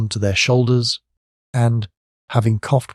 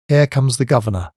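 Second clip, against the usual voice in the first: frightened warning; 4 semitones higher than usual. A narrator's reading. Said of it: "a frightened voice".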